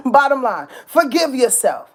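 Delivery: laughing through the words. Real, not acted. Urging listeners to forgive themselves, laughing. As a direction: laugh then press on.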